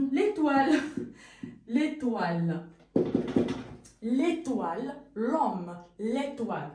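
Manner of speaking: l'étoile said as one word, lé-toile; elided l'étoile. Shown as a demonstration. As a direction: run L straight into étoile. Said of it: "Ou alors".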